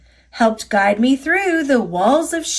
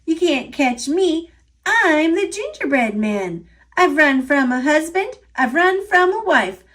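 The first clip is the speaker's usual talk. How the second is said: a light, teasing, higher gingerbread voice; taunting gingerbread man; 4 semitones higher than usual. Acted. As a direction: taunt the chasers, playful and bouncy. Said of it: "and said".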